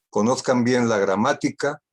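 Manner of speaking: normal talking voice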